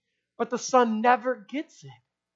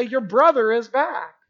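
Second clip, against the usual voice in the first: slower and gentle, savoring brother; joyful father; 3 dB louder, slower than usual. Retold or imitated. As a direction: let the father linger on the good news. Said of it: "the father comes out and is gonna say".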